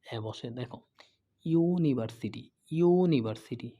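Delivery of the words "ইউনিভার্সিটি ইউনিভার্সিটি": "ইউনিভার্সিটি" with a long, strong "ইউ" at the start; stressed initial "ইউ". Shown as a demonstration. Teacher showing students the starting sound of "ইউনিভার্সিটি", opening "ইউ" drawn out. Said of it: "উচ্চারণ যদি ইও".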